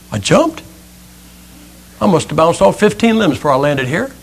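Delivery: soft, dejected acorn voice; winded, upset acorn. Acted. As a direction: lightly play a spent little acorn. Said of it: "He's kind of winded. He's looking a little upset".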